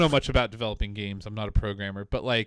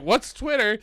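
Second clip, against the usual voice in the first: higher mock British accent, puzzled; 8 semitones higher than usual. Nintendo mocked as out of touch, British accent. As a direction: toss it off in a put-on British accent.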